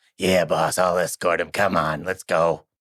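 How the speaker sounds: loud goblin henchman character voice. Retelling a story, the goblin answering his boss, goblin voice. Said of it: "The goblin goes".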